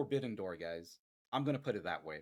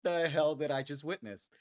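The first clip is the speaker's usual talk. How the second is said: awed disbelief; 5 dB louder than usual. Real, not acted. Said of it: "I'm really tearful".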